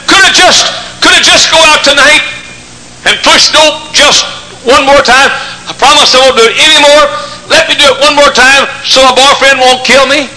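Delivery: put-on high pleading teen girl. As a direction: plead like a scared teenager. Pleading girl's voice in story.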